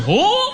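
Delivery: high, questioning attempt at the crowd's whoa sound; trying the sound. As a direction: try the local vowel and fail. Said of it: "I'm like".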